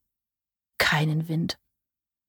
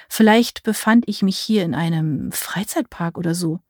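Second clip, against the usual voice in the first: ordinary delivery, nothing marked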